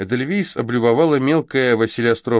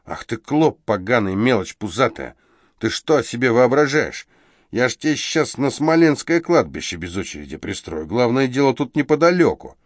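shouting; 4 semitones higher than usual. Acted. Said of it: "он выкрикнул".

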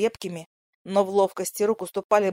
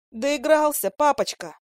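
flaring up; 6 semitones higher, slower than usual. A narrator's reading. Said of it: "вспыхнула Лиза".

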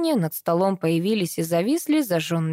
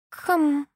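pointed throat clearing; 9 semitones higher than usual. A narrator's reading. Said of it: "напомнила себе элементаль".

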